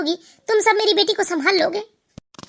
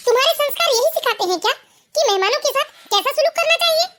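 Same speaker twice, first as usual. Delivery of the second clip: stern rebuke; 5 semitones higher than usual. Acted. Mother-in-law rebukes bahu.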